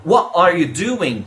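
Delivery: What said as wha, without its T, before are you doing; dropped T. Shown as a demonstration. Teacher demonstrating a variant, What with no T. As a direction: leave the T off What. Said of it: "Sem o T".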